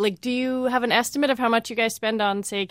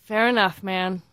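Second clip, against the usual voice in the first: understated, playfully let-down tone; mildly deflated, teasing the guest; mock disappointment; 3 semitones lower, slower than usual. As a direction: let a touch of disappointment show. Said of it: "note of disappointment in my voice".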